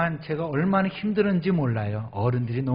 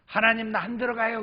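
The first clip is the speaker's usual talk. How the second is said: complaint to God; 8 semitones higher, faster than usual. Retold or imitated. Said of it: "그랬어요".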